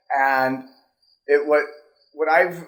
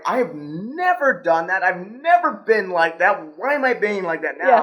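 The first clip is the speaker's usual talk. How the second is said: baffled protest; 4 semitones higher than usual. Retold or imitated. Quoting own baffled reaction.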